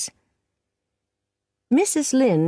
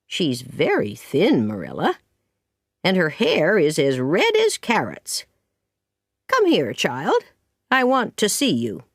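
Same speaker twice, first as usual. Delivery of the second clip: lightly voiced critical neighbour with swooping pitch; bossy Mrs Lynde. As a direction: size the child up, then summon her. Narrator voices Mrs Lynde inspecting Anne.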